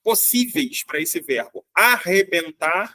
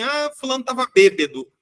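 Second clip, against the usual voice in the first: casual quote; 5 semitones higher than usual. Retold or imitated. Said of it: "quando uma pessoa fala assim".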